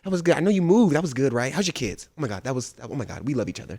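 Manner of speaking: soft gushing mock-sweet voice; breathy mock gush; fake-friendly greeting. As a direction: imitate fake niceness before a debate. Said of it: "they'd be like".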